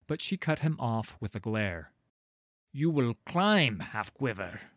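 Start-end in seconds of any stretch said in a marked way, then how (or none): 2.7-4.7 stern command. A narrator's reading. Halla ordering Sigvar to climb.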